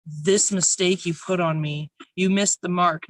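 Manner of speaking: measured spoken-word poetry reading; poem recital. Acted. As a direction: read it aloud like a poem on stage.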